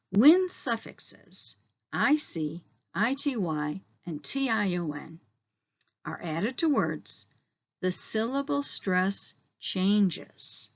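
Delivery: slow, deliberate reading for the class; slow read-along. Shown as a demonstration. Teacher reading the rule aloud with students, slowly. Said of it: "Let's read this together".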